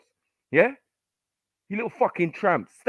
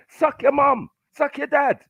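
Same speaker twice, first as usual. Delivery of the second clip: higher, louder spat-out insults; furious insults; 8 semitones higher, 3 dB louder, slower than usual. Real, not acted. Streamer hurling furious insults at the callers. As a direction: spit the insults at them.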